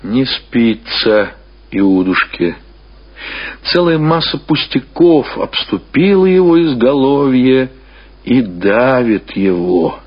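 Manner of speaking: usual speaking voice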